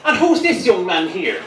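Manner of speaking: local priest. Acted. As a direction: greet a baby as a priest would, drawn out. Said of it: "the local priest comes over".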